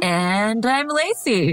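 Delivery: slow announcer-style intro; game show host. Real, not acted. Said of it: "Why did I sound like ... a game show host".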